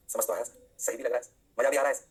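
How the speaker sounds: a hint of an obliging pupil; mock student replies. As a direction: lightly voice a student assuring the teacher. Teacher voices students answering him.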